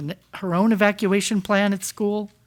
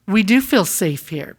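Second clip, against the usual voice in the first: weight the words "feel safe" so they land; stress on feel safe. Real, not acted. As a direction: lean on "feel safe" with a firmer push. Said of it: "That emphasis on the word feel safe".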